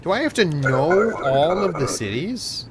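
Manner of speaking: loud, high, incredulous question; indignant outburst. Real, not acted. Player balking at having to know all the cities, loudly indignant. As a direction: burst out in disbelief, swooping up high. Player balks at the game's demand.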